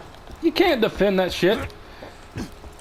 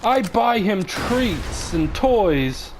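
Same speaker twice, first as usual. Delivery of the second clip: whiny mock voice, higher and slow; mocking her excuses; 4 semitones higher, slower than usual. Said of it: "she was like".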